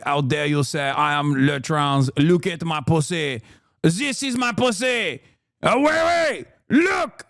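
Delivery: put-on camp French lady flaunting herself, French accent; mock French accent. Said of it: "in the most French way possible".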